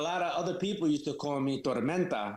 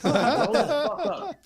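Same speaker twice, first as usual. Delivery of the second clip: much higher and louder, slow and forceful; angry outburst; 10 semitones higher, 8 dB louder, much slower than usual. Real, not acted. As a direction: drag each word out in real exasperation. Ranting about online complainers.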